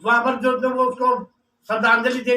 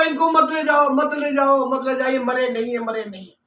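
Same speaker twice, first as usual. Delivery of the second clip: acted tearful plea; 2 semitones higher than usual. Wife stopping villagers taking husband away, tearful pleading. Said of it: "तो वो रोने लगी".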